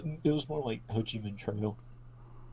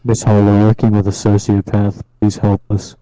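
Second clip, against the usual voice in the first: mock desperate plea; 2 semitones lower, 19 dB louder than usual. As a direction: call out for help, hammed up.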